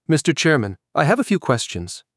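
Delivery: nasal whiny voice. Acted. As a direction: whine it a little through the nose. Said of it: "came a nasal, whiny voice".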